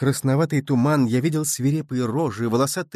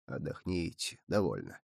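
much softer and lower, soothing; calm the boy down tenderly; gentle comfort; 10 semitones lower, 12 dB quieter than usual. A narrator's reading. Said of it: "гладил меня по мокрой голове". (ласково, очень тихо)

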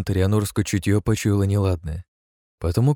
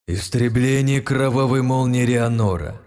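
slow spell call; 4 semitones higher than usual. Acted. Hero calls out ultimate technique.

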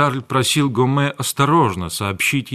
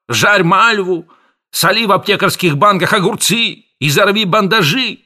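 much higher, loud desperate rant; enraged pharmacist shouting at his family; furious shout; 8 semitones higher, 5 dB louder than usual. A narrator's reading. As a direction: throw up your hands and yell. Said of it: "продолжал аптекарь".

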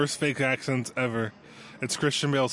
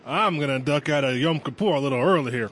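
hammed-up Southern accent; Southern gentleman voice for a joke; 3 dB louder than usual. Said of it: "Southern gentleman".

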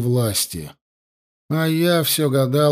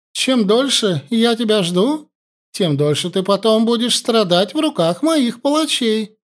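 cruel princess; 7 semitones higher than usual. A narrator's reading. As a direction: savour the threat like a tyrant.

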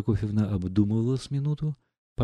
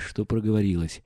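usual speaking voice

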